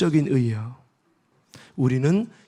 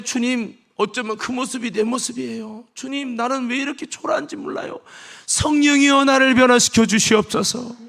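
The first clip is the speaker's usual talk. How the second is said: repentant prayer; 5 semitones higher than usual. Retold or imitated. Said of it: "말하기 전에".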